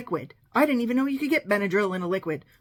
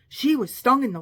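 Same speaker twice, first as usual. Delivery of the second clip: nurse going wild; 3 semitones higher, 7 dB louder than usual. Retold or imitated. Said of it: "The nurse went wild".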